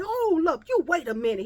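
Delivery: loud, high call to stop; firm halt. Retold or imitated. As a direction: cut him off sharply. Man stops the Asian owner.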